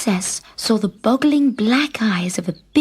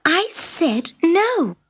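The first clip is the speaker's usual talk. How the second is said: slow, high insistent no; firm refusal; 7 semitones higher, much slower than usual. Acted. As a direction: spell it out slowly. Princess refuses firmly.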